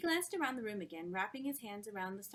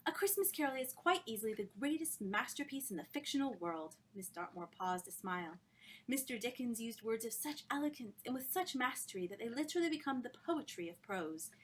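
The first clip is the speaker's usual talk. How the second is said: adoring praise; 3 semitones higher than usual. Acted. Miss Dartmoor praising Dickens, rapturous. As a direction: savour every word of praise.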